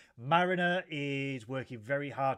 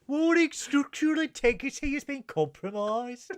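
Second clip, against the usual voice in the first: put-on high, loud ship computer in a Brummy accent; Brummy accent computer alarm; 10 semitones higher, 5 dB louder than usual. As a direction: do the starship computer as a Birmingham local. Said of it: "computer voices in a Brummy accent".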